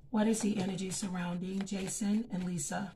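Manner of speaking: soft, hushed prayer to God before the cards; quiet prayer. Acted. Reader asking God for clear messages, soft prayer.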